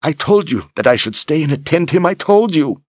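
high, pleading witch voice; whiny old woman. Acted. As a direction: whimper it defensively. Lunetta pleading after being struck.

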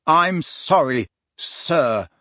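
slow apology, then pointed "sir"; stress on last word. A narrator's reading. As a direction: set "sir" apart with deliberate weight. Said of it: "emphasizing the last word".

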